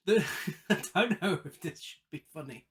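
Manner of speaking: real laugh breaking into the words; amused laughter. Real, not acted. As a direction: start talking through a chuckle. Amused by the scene being recapped.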